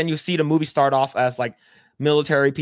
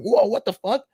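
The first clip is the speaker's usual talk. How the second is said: mock shock; 7 semitones higher than usual.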